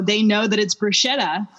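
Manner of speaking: "bruschetta" said with "sh" for the ch; common American pronunciation. Shown as a demonstration. Italian teacher quoting what Harvard students think, common American pronunciation. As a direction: say "bruschetta" as "broo-SHET-a". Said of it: "because C H in".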